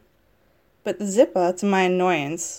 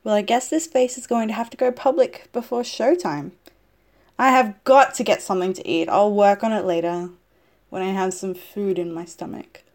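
louder, fed-up grumble; annoyed and loud; 6 dB louder than usual. Acted. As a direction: push it out, impatient and hungry. Annoyed, hungry quote.

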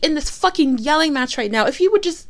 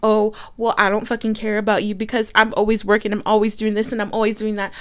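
mock sulky voice, lower and quick; mocking partner; 6 semitones lower, faster than usual. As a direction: mimic the partner's complaint. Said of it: "fair of you to be like".

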